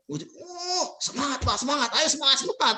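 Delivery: high, laughing encouragement; laughing cheer. Retold or imitated. Speaker voicing the wife's helpers cheering at the birth, laughing cheer. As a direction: cheer him on through laughter.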